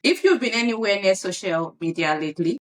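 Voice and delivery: news anchor read; newscaster voice. Acted. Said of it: "why are you sounding like a newscaster".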